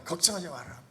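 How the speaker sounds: 걱정하지 마라 said lightly, a mild brag with falling 걱정하지; offhand reassurance, 걱정하지 stressed and falling; mildly boastful. Acted. Disciples reassure the father, a mild offhand brag. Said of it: "막 큰 소리 치고".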